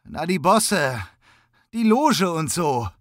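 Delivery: slow, high, nearly weeping; mild tearful mumble of a scared young man; close to tears. A narrator's reading. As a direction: draw it out as if about to cry. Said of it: "fast weinte der junge Mann".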